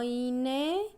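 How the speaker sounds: ordinary talk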